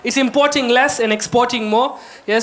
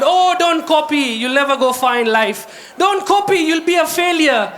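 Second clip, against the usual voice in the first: scolding teacher; 3 semitones higher than usual. Retold or imitated. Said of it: "we were told".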